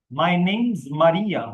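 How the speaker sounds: My name's Maria said slowly with name's joined; contracted name's. Shown as a demonstration. Teacher repeats the contraction slowly and loudly. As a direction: stretch it out, linking name's. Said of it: "contract कर दिया".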